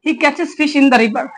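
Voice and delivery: very slow, each word set apart; slow dictation. Shown as a demonstration. Teacher giving the finished English sentence to students, very slow. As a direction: read the answer out slowly for learners. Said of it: "teacher models final answer".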